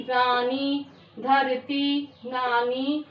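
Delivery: रानी, धरती, नानी each ending on a held ee; word by word, sounding each final ee; long final ई. Shown as a demonstration. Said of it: "बड़ी ई की".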